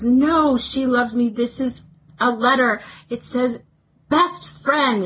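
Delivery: hint of a Scottish accent, affectionate and proud; bad Scottish accent. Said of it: "that was the worst Scottish accent ever".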